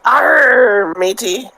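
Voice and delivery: hammy pirate growl. Pretend. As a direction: play a cartoon pirate. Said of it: "talk like a pirate day".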